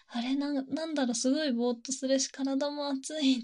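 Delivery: lightly voiced drugged heroine, drifting; dazed heroine. Drugged heroine wondering why she feels hot, dazed. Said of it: "飲んで少し経るとぼーっとして".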